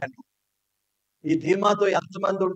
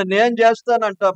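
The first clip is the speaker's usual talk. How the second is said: నేను చేస్తాను shouted higher and louder; angry boast; 6 semitones higher, 6 dB louder than usual. Retold or imitated. A person in anger shouting నేను చేస్తాను. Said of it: "కోపంలో ఏమన్నా".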